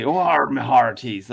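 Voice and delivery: lightly hammed West Country pirate call; mild mock pirate in a West Country accent. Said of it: "and a pirate would say".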